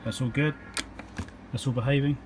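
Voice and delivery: normal talking voice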